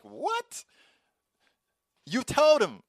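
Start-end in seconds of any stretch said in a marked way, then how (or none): 0.0-0.6 confused what. Retold or imitated. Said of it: "They'll be like".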